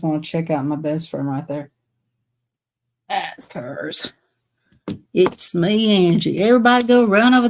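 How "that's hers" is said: barely voiced, to herself; whispered aside. Real, not acted. Pointing out her friend's link to viewers, whispered. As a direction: whisper "That's hers" under the breath.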